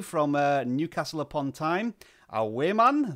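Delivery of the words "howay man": higher, louder Geordie exclamation; Geordie accent. Acted. Livestream host greeting a Newcastle viewer in mock Geordie accent. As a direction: put on your best Geordie accent. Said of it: "that's my best Geordie accent".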